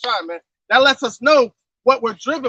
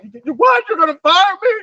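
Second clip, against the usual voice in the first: half-mocking outraged shout, higher on the last line; mock outraged worker; 5 semitones higher, 4 dB louder than usual. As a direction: play a worker told he is fired, rising to a shout. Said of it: "They go out and like".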